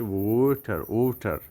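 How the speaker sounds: ওয়াটার with a crisp t, "waw-ta"; British ওয়াটার, clear t; British water. Shown as a demonstration. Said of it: "ব্রিটিশরা কীভাবে বলে জানেন".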